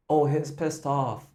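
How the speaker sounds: a throwaway aside about the singer; half-spoken remark. Retold or imitated. Coach voices the bracketed aside. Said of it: "the bracketed one is like".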